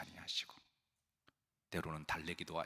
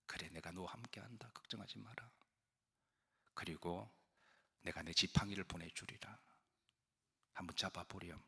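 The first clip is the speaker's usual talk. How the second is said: softly soothing God, a gentle hush; God coaxing a frightened Moses, quiet and tender; 4 dB quieter than usual. Retold or imitated. God comforting a reluctant Moses, softly reassuring. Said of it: "하나님이 이렇게 달래세요".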